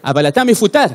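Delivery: put-on lilting South American-accented Hebrew. Argentinian boss firing an employee, South American accent. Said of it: "במיוחד שמדברים אותה במבטא דרום אמריקאי".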